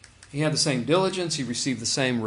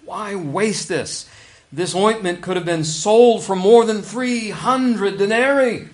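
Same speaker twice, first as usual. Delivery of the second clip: indignant; 4 semitones higher, 5 dB louder, slower than usual. Retold or imitated. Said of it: "they said to themselves indignantly".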